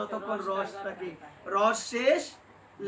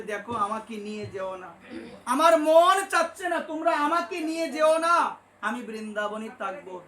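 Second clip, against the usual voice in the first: put-on old guru refusing; 5 dB louder than usual.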